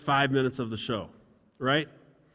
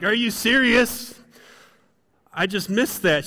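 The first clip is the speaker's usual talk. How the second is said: loud, high mock outrage; raised-pitch comic protest; indignant disbelief; 5 semitones higher, 4 dB louder than usual. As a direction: act out an affronted husband. Acted quarrel with wife.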